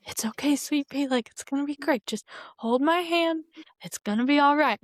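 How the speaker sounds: a lightly voiced southern dad reassuring; imitating southern accent. Imitating her dad soothing her in a mild southern accent. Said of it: "His little southern accent".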